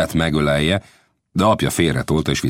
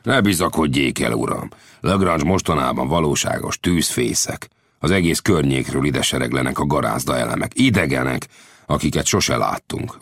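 Lang's voice. Acted. Lang continues.

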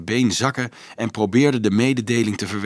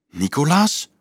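high, sharply rising query; shrill question; 6 semitones higher than usual. A narrator's reading. Marieke learns from the priest who accused Rudolf, shrill. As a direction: ask it shrilly, voice climbing. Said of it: "vroeg ze schril".

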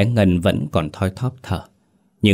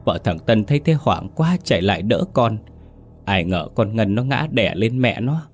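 mild fake wailing; 3 semitones higher than usual. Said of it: "Bà Tám lập tức òa lên khóc lóc thảm thiết".

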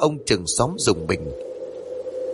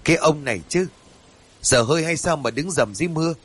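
mild scolding; 3 semitones higher than usual. Acted. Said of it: "bà vừa gắt nhẹ".

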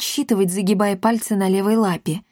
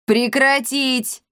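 slow, higher barked command; barked order; 5 semitones higher, much slower than usual. Acted. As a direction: snap them out of the fight. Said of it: "рявкнул брат Пафнутий". (рявкнуть медленно и властно)

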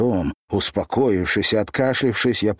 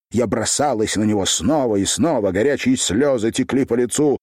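usual speaking voice

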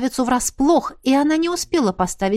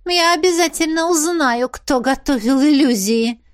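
higher hissed threat; hissing princess; 6 semitones higher, 4 dB louder than usual. Acted. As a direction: hiss the promise. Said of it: "прошипела Аварилиан".

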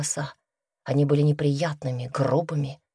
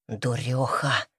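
low, softer, spat out contemptuously; spat-out insult; 6 semitones lower, 5 dB quieter, slower than usual. A narrator's reading. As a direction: spit the word at her. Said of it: "бросил, будто выплюнул Мордыхай".

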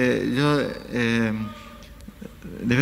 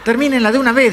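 very high, loud outburst; mock exasperated shout; 11 semitones higher, 6 dB louder than usual. Man telling quarrelling moviegoers to stop, high mock shout. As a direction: imitate a fed-up man calling out.

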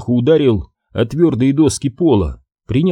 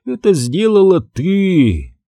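accusing; 8 semitones higher, slower than usual. Acted. Max accuses her, vengeful.

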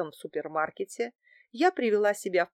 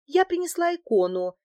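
high, louder, nervous announcement; feigned nervousness; 9 semitones higher, 5 dB louder than usual. A narrator's reading. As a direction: play it anxious and eager to be believed. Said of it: "демонстрируя волнение". (высоко, с наигранным волнением)

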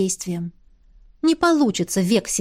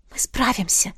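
whisper. Acted. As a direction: whisper it to steady yourself. Whispered resolve before ritual.

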